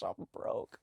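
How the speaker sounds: breathy whispered aside. Real, not acted. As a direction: whisper it like a guilty secret. Whispered aside after cash joke.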